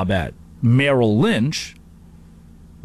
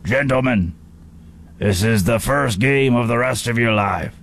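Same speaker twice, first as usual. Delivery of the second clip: put-on coach hologram voice; solemn locker-room speech in a put-on voice; Pop. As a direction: address the team like a summoned mentor. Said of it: "you bring Pop up out of the floor".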